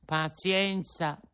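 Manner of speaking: put-on high, fast boyish puppet voice; a hungry puppet pouring out his story; puppet Pinocchio. Pinocchio telling Geppetto his hunger woes, high puppet voice.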